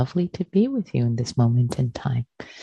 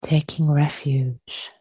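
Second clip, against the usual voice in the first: unhurried guiding voice with long pauses between phrases; guided meditation. Real, not acted. Teacher settles friends into shared practice, guided meditation. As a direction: ease listeners into stillness, phrase by phrase.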